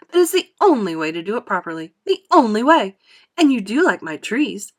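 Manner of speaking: animated, emphatic explaining; lively factory owner, punching key words; Wonka, exuberant showman. Acted. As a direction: proudly show off your invention. Voices Wonka.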